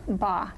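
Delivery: "Ba" in one piece, ending on the vowel; blended sounds. Shown as a demonstration. Tutor repeats the model for the student, "Ba" blended and open-ended. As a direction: blend b straight into ah for "Ba". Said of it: "Can you blend those together".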